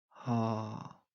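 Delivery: ordinary talk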